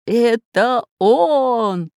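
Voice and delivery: slow, loud, delighted exclaim; bursting with happy discovery; joyful cry. A narrator's reading. Geographer hopping by the plant, crying out with joy. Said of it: "весело прыгая ... закричал географ".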